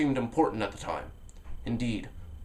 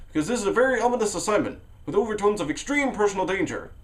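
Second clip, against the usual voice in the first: excited; 8 semitones higher, 3 dB louder than usual. Acted. Narrator warning hitchhiker.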